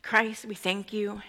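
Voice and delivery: slow, earnest prayer. Acted. Preacher leading the congregation in thanks to Christ, prayerful. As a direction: address Christ reverently, unhurried.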